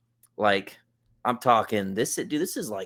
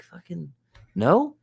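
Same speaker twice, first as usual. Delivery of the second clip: imitating kid; 8 semitones higher, slower than usual. Kid answering mom.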